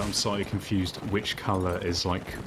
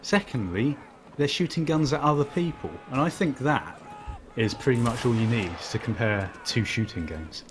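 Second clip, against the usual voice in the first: sarcastic; 2 semitones higher than usual. Acted. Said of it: "I'm being sarcastic".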